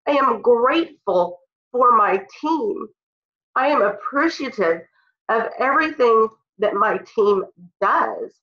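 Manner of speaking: choked up with real emotion about her team; emotional. Real, not acted. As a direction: speak through being moved, holding it together. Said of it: "that makes me really emotional".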